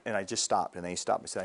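ordinary talk

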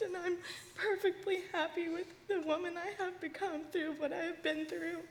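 tearful love and apology to her father; weeping, heartfelt reassurance; real crying. Real, not acted. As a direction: speak tenderly through sobs. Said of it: "I'm sorry I'm crying".

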